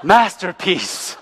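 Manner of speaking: slow, drawn-out mock admiration with a laugh; mock awe. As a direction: sarcastically marvel at a leaning building. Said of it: "You think we'd be like".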